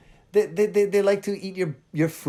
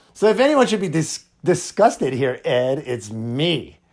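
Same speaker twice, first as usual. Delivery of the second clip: wife's pointed comeback, slowing at the end; imitated sassy retort; 3 dB louder than usual. Wife putting Ed in his place, imitated sass. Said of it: "She kinda said it like that, too, with a little, you know, wobbly head".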